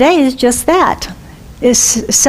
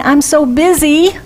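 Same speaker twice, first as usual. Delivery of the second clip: harried sigh of busyness; lightly imitating a busy person; mock busy complaint; 4 semitones higher than usual. Shown as a demonstration. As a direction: sound overworked. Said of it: "instead of saying".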